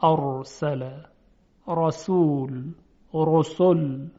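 heavy ر in «ارسل، رسول، رسل», drawn out slowly; thick, full r in «رسول» and «رسل»; تفخیم. Shown as a demonstration. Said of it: "باید تفخیم بشه". («رسول» با رای درشت و مفخم)

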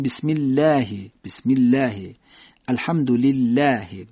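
light, front l in الله; الحمدلله with a light, clear l; thin lam. Shown as a demonstration. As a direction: say بسم الله with a thin "lläh".

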